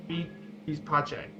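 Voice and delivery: "Mi dispiace" low and soft; soft repeat. Shown as a demonstration. Presenter repeating the phrase quietly for the class.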